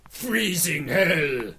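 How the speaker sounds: put-on slow, heavy Austrian action-hero accent; Schwarzenegger impression. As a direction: drag out Let's go kick some ice like Arnold. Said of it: "Arnold Schwarzenegger's lines".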